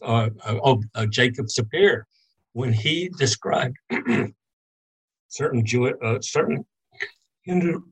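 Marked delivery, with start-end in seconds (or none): 2.5-7.9 talking through coughs; clearing the throat between words; coughing fit. Real, not acted. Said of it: "I apologize for coughing so much".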